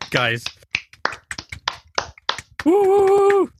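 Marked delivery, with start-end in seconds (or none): 2.6-3.5 high, loud whoop of delight; excited cheer. Real, not acted. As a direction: cheer like the show just started. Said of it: "Riley's far too excited for this".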